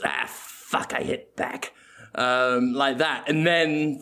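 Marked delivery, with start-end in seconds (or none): 0.0-1.7 whispered annoyed mutter, much softer; muttered under breath. Pretend. Willem fumbling on his phone, a whispered mutter. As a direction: grumble it to yourself. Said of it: "hear Willem scrolling on his phone".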